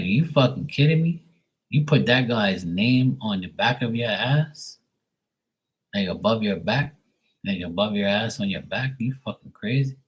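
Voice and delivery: retelling a stunned, scolding reaction to the ex's name; mock-outraged are-you-kidding-me; incredulous disbelief. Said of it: "I said it just like that".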